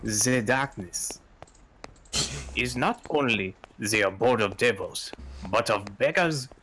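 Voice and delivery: a hint of French on the maid's narration; French-ish narrator voice. New player narrating as the maid, faintly French. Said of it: "This might be more French".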